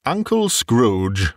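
slow, drawn-out party toast; a guest's slow, solemn toast to an absent uncle. Acted. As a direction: raise a glass and toast him slowly.

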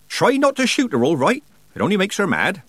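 high, loud Nanny voice; brisk old witch. A narrator's reading. Nanny warns old man on leaving, brisk. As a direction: call out firm parting advice.

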